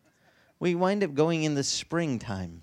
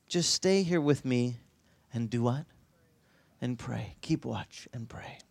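quiet prayer. Retold or imitated. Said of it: "I remember sitting there thinking".

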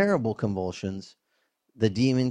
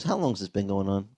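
calm; 5 semitones lower, 4 dB quieter, faster than usual. Pretend. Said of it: "He just goes".

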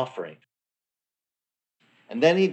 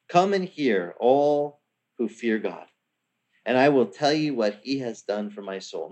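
solemn reading. Shown as a demonstration. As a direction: read it out like a proclamation. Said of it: "Now, this part is not for anyone".

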